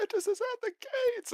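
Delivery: high shrill alarm yell; guard shouting a warning to the city; townsfolk yelling. Acted. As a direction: raise the alarm at the gates. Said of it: "somebody else".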